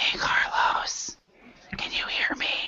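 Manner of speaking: soft, hushed whisper. Showing how you talk into someone's ear so no one else hears, whispering. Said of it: "So that's what whisper".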